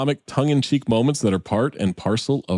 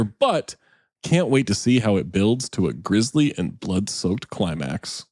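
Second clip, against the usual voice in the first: reviewer voice. Pretend. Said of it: "That's the best voice you've ever done".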